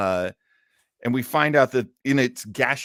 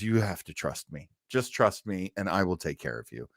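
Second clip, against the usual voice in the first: lower, softer coaxing; quietly reassure, as if retelling a tender promise; gentle reassurance; 5 semitones lower, 6 dB quieter than usual. Retold or imitated. Woman retelling a promise to a changeling in pain, gently reassuring.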